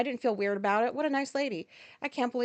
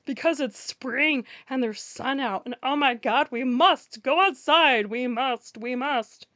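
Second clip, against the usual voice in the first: mock eager walker; 3 semitones higher, 6 dB louder, slower than usual. Mocking eager spring walkers.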